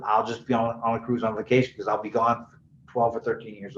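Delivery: low, soft, unbothered retold voice; quietly casual, dropped low; cool as a cucumber. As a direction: imitate someone breezily calm about it. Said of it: "he's cool as a ... a cucumber".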